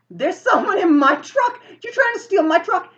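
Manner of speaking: very high, loud indignation; acted outraged accusation. Driver accuses them of theft.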